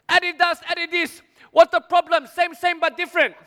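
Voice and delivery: high, insistent market-seller voice; hammed-up stallholder, pitched well up; dismissive shopkeeper. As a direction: brush off the complaint as the seller. Seller shrugs off fake brand.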